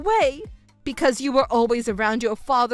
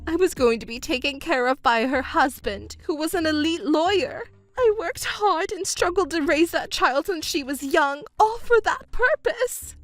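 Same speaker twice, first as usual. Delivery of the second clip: high, rising panic; panicked mother; 3 semitones higher than usual. Acted. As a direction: fret about her own future. Mother panics about her future.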